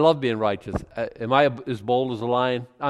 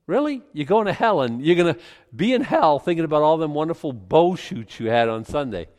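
incredulous retort; 3 semitones higher, 3 dB louder than usual. Retold or imitated. Retold inner retort to scoffer.

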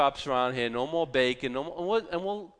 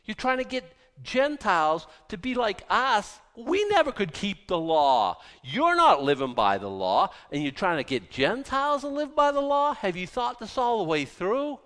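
Paul rebuking Peter; 7 semitones higher, 3 dB louder than usual. Retold or imitated. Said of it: "Paul says".

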